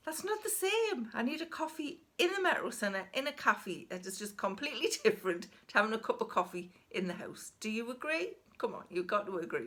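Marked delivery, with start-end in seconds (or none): 0.1-7.5 much higher, pleading that a cafe coffee is different; high-pitched mock protest, ending in a laugh; exasperated insistence. To her husband Warren, insisting a cafe coffee beats home. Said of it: "And I'm thinking".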